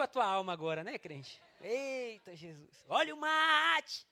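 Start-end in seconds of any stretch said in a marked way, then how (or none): 2.9-4.1 singsong beach vendor call. Retold or imitated. Kids at beach, mate vendor.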